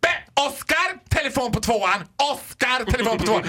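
hammed-up cutting store page; piercing announcement. Shop queen paging Oscar, piercing mock announcement. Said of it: "en röst som går genom märg och ben".

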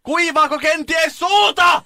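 slow, very high bellowed questions; imitated shout. Carer questioning a deaf old patient, shouting slowly. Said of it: "meni vähän lähemmäs ja huusi".

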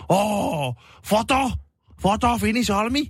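high, eager tourist voice, mock; Japanese tourist. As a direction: imitate an excited Japanese tourist asking. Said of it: "Sitten on silleen". (innostunut turisti, matkittu)

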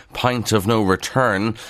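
pint said as POINT in a broad Kildare accent; "pint" stretched into "poInt", slow and rural. Shown as a demonstration. Newsreader slipping into his Kildare accent on a headline. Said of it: "that's not my Kildare accent now".

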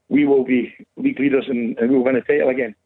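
breathless after rushing in; out of breath. Real, not acted. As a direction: talk while still catching breath. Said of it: "out of breath".

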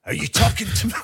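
a touch of mock De Niro menace; De Niro impression. The speaker's second go at the De Niro mirror line. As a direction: deliver the mirror line like a tough guy. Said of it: "imagine me with a Mohican".

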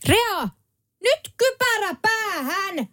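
high, slow mock yell of a bossy mother; mother shouting a helmet order at her kid; mom yelling out the window. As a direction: call it out the kitchen window like a nagging mom. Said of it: "huutaa, että tota".

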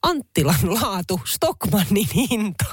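lightly voiced slow sales pitch; imitating a bar tout. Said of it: "paras kuulemani on eräässä baarissa". (kevyesti matkittu myyntipuhe)

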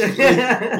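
loud, high-pitched protest on a mate's behalf; mock pleading. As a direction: argue his innocence, pitch and volume right up. Mate pleads with security guard.

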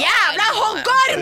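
high, loud and slow drawn-out yell; mock yell. Calling down to Mario from bed, retold slow loud mock yell. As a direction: stretch the insult out at full volume. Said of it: "og jeg bare".

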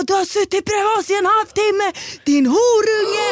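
high, furious mock yell, last words drawn out; retold angry yelling. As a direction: imitate an enraged boyfriend yelling. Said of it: "han börjar, börjar skrika". (härmar en rasande pojkväns skrik)

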